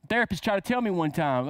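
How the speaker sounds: usual speaking voice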